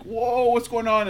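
stretched-out slow-motion voice. Retold or imitated. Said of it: "are you doing the slow motion voice on purpose?".

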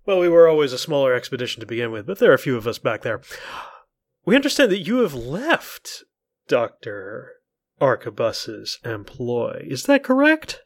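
a hint of a prim professor; man doing a woman's voice. Player voices Professor Isolde.

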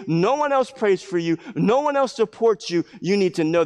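impassioned preacher voicing a teacher; urgent preaching. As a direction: drive it home to the disciples. Preaches in Jesus' words.

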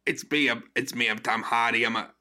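lightly imitated mumbling movie reporter; a hint of a wandering accent; half-hearted impression of a muddled reporter; Tom Hardy. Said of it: "can you do the Tom Hardy voice".

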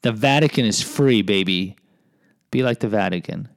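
indignant tourist. Retold or imitated. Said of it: "they're like".

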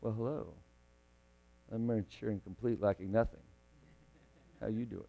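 a hint of a smug know-it-all greeting. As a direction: play the self-satisfied saint showing off. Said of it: "So you can be like".

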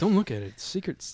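playful secretive whisper. Pretend. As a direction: hush it like a secret. Hiding notes from cohost.

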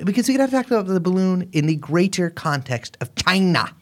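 lightly attempted, not great politician impression; Donald Trump. Host talks up the balloon story, a rough Trump impression. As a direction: try a rough presidential impression, only half landing it. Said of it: "I'm doing a Trump voice".

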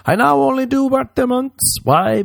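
high, sing-song camp declaration; mock grand announcement. Host declaring his birthday month, high and camp. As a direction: announce it like a diva.

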